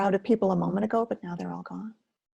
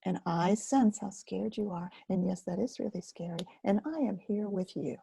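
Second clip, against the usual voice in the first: gentle reassurance; 4 dB quieter than usual. Shown as a demonstration. Teacher demonstrating kind words to a scared inner part. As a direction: hold your scared feelings kindly. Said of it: "what do we know is true".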